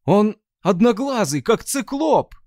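high, loud cry; exclaiming. Acted. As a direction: cry out in alarm. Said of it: "вскричал связист". (связист вскрикивает громко и высоко)

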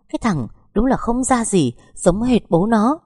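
cao giọng, chậm, nhấn mạnh; mắng xối xả; mắng con. Acted. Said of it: "Bà mắng con trai một tràng". (mẹ chồng mắng con trai giống bố)

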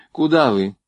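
anxious, voice up high; fretting that he'll walk in the dark; worried. A narrator's reading. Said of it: "заволновалась Варя".

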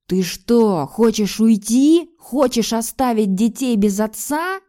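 loud, slow, raging; furious. A narrator's reading. Husband raging at his wife about leaving, furious. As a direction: spit out each word in fury. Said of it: "яростно проговорил муж".

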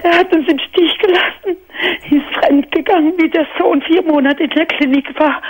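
tearful, voice catching on breaths; talking through real tears; breath catch tremor. Real, not acted. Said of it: "Sorry, dass ich weine".

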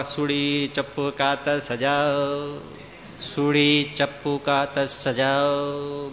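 slow sing-song peddler cry; street hawker's call. Retold or imitated. Sharpener calling on the street, a slow sing-song cry.

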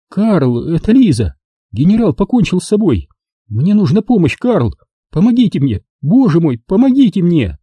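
pleading for help. Acted. Lisa begging her lawyer for help, desperate.

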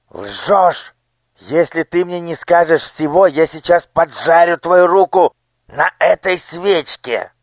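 loud, high, threatening demand; a cruel minister bullying a child; menacing interrogation. Acted. (угрожающий допрос)

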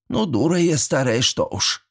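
embarrassed sigh, trailing into a breathy whisper. A narrator's reading. Old neighbour scolding herself with a sigh. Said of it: "вздохнула Степанида".

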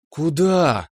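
mother's voice lifted high and firm. A narrator's reading. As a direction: raise your voice to stop him. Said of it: "возвысила голос мама". (мама повышает голос, не отпуская гостя)

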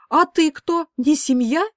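high, loud indignant cry; hot exclamation. A narrator's reading. Mother protesting to her daughter, hot loud exclamation. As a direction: fling the question out hotly. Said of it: "горячо воскликнула мама".

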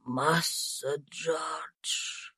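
put-on dying Tom faintly repeating the boy's name, very slow and soft; weak voice. A narrator's reading. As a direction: let the name fade out. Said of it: "повторил слабым голосом Том".

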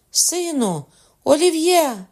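high, desperate calling; mother's scream. A narrator's reading. Mother calling to her son under the blade, screaming. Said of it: "кричала мати".

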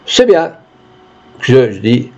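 a hint of rustic storyteller, quotes lifted in pitch; lightly voiced peasant witness. Peasant recounts the walk to the judge, lightly rustic telling. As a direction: spin the village tale with sing-song repeats. Peasant retells events and exchanges.

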